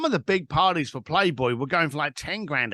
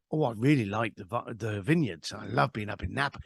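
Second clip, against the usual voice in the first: lower, softer retold caller opening up; changed, softened tone; 5 semitones lower, 4 dB quieter than usual. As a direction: ease into fondly recalling a favorite place. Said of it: "And his tone changes".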